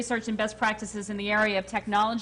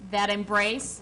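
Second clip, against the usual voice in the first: dictating; 4 dB louder, slower than usual. Shown as a demonstration. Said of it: "You say it and I'll repeat it".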